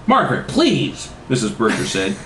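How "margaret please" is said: high-pitched pleading mother; hammed-up maternal reproach; scolding mother. A narrator's reading. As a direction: plead primly as a shocked mother. Mother scolding her daughter's swearing.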